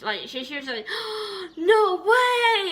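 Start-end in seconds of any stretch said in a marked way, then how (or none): 0.9-1.5 a sharp high gasp of surprise; retold gasp. Mom opening the shoebox, gasping high. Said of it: "she shrieked". 1.6-2.7 shrieked high and loud in delight; imitated shriek. Mom opening the Christmas box, shrieking in delight. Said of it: "she shrieked".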